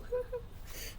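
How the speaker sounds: soft, high mock sobs; imitated crying. Sister slid down the wall, soft imitated crying. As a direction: whimper quietly up high, as if crying alone. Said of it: "just cried to herself".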